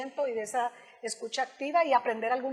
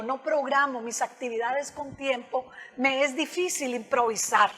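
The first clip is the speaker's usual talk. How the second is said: calm assertive reply. Shown as a demonstration. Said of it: "mejor desde el yo".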